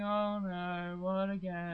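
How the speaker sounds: sarcastic. Acted. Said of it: "you got the sarcastic bug going".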